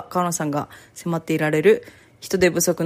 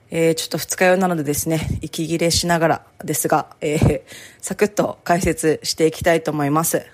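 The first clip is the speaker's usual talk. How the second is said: hungover, out of breath. Real, not acted.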